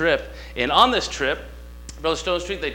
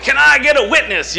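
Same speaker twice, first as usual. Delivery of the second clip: much higher, loud call for a witness; preacher's call; 10 semitones higher, 9 dB louder than usual. Retold or imitated. Preacher calling the church for a witness, loud. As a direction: call out to the pews.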